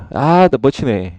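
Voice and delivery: slow, drawn-out Jeolla dialect groan; demonstrated Jeolla-accented complaint. Shown as a demonstration. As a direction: stretch the opening sigh in Jeolla dialect. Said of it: "여튼 전라도 버전은".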